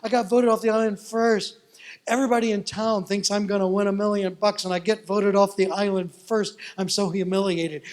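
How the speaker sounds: upset outburst. Retold or imitated. Tina telling her pastor she was voted off first, upset. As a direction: spill it out in dismay.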